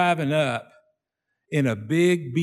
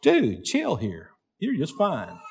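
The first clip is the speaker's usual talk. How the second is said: calming himself; slower than usual. Retold or imitated. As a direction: talk yourself down gently.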